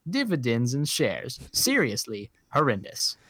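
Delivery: disgusted British reviewer, hammed up; British accent. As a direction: pronounce each verdict in mock British. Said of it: "read this in a British accent".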